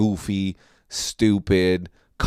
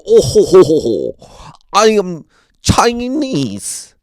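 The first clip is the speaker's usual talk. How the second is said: high, slow mocking stereotype Asian voice with a ho ho ho; mock Asian accent; 8 semitones higher, 6 dB louder, slower than usual. Comic mocking Asian people on stage, high mock accent. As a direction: imitate a comic's racist Asian caricature. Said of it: "they just make Asian sounds".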